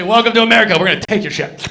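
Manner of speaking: loud, brash mock greeting; brash mock welcome. Comic to the crowd, a loudly brash mock welcome. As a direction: announce it like a proud host. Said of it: "That's what I say. I say".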